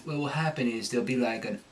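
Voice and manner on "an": Cockney vowel, uh before o; Cockney accent. Shown as a demonstration. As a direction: slide uh-oh into each word, Cockney. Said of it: "with the Cockney".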